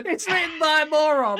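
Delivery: high, loud laughing jibe; words bursting out with giggles; laughing hard. Real, not acted. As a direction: jeer through helpless laughter. Co-host mocking the script while laughing.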